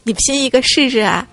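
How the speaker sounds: imitated sneering challenge; mock cold-laugh taunt. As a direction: start with a scornful chuckle, then dare them. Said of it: "冷笑道".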